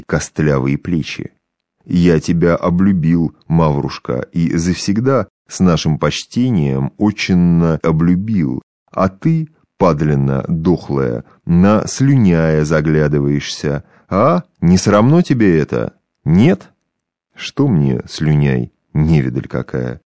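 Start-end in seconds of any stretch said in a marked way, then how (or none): 1.9-16.7 put-on drunk old man. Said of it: "раскрасневшийся от водки беззубый старичонка". 17.4-20.0 lightly voiced tipsy old woman, coy. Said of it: "С нежной истомой и своего рода кокетством цедит сквозь зубы".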